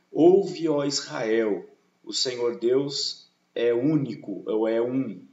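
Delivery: solemn rabbinic intonation. Retold or imitated. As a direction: proclaim it like a rabbi entering the synagogue. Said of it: "Essa é uma entonação". (entoação solene de rabino)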